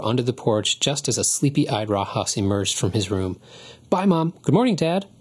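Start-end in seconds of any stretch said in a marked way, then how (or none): 3.9-5.1 high, louder hurried goodbye; boy calling to his parents as he hurries away. A narrator's reading. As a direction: call back cheerily while rushing off. Boy calling out while hurrying.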